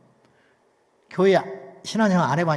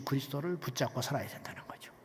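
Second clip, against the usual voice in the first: hushed whisper of conviction; whispered preacher's point; 5 semitones lower, 12 dB quieter than usual. Acted. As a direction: drop to a breathy whisper to drive it home. Preacher drops voice on key point.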